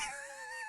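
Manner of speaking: high, soft giggle. Real, not acted. Reviewer amused by his Peter bit, soft giggle. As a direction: giggle at your own bit. Laughs at own impression.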